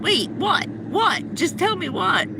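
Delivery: what, what, just tell me; alarmed. Retold or imitated. Panicked woman asking the furious hacker what.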